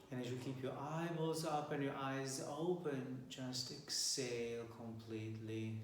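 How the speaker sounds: calm, measured instructor leading a relaxation; guided meditation. Acted.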